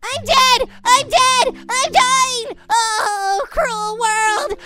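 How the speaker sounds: mock tragedy. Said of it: "I'm gonna go die now".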